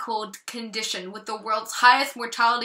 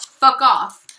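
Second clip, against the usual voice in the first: louder, spit out "fuck off" at the illness; defiant shout; 8 dB louder than usual. Acted. Poet to her eating disorder, defiant loud shout. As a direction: tell your disorder off loudly.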